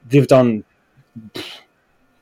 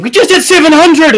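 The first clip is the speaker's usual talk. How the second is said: more excited update; 13 semitones higher, 7 dB louder than usual. Retold or imitated. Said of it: "and then, like, a minute later".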